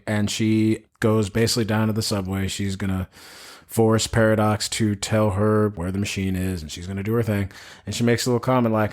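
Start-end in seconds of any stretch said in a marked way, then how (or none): none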